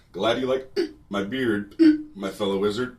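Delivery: hiccup between phrases while proclaiming; imitated hiccups.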